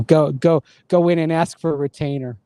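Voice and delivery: put-on movie Boston accent with a drawn-out retainer. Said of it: "a Boston accent from, uh, Good Will Hunting".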